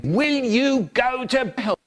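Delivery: high, slow eerie voice asking; a strange voice from nowhere, drawn out; funny voice. Acted. Voice in his head, slow and high. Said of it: "hear a funny voice going".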